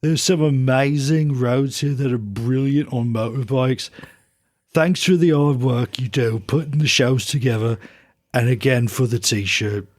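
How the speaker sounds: put-on light Midlands accent reading a letter; a hint of a Black Country accent; a rock singer's Midlands accent. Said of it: "I'm gonna read it like a rock singer".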